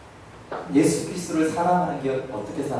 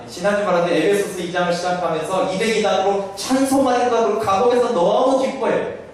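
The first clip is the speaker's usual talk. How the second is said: higher, rising preacher's fervour; fervent preaching; 8 semitones higher than usual. Acted. Pastor telling the congregation of Paul's joy, fervent preaching. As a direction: preach it with building excitement.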